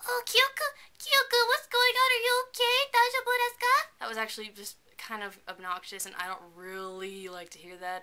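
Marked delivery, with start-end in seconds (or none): 0.1-3.9 super squeaky voice, very high and loud. Explaining a dislike of one anime version's character voice, Tohru super squeaky voice. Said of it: "super squeaky voice".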